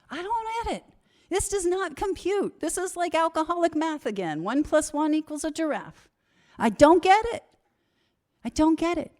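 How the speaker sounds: high, exasperated disbelief. Real, not acted. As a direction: throw up your hands, baffled and loud. Exasperated confusion, high and loud.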